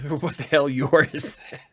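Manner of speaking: loud, high exasperated mock outrage; hammed-up disbelief at bad spelling. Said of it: "just being like".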